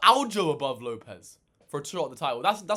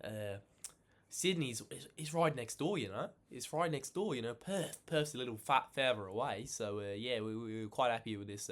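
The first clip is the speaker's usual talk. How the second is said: mock Aussie camp; 7 semitones lower, 10 dB quieter than usual. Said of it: "They're like".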